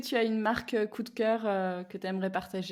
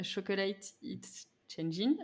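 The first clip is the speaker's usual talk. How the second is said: slow, softer English with a French accent; self-mocked English accent; 4 dB quieter, much slower than usual. Real, not acted. Interviewer quoting the guest's hashtag, self-mocked English accent. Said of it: "avec mon super accent".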